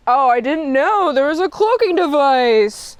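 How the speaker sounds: put-on surprise, rising to the end; Kirk. Captain faking ignorance of the cloaking device, feigned surprise. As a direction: act as if you never knew. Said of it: "he pretends to be like".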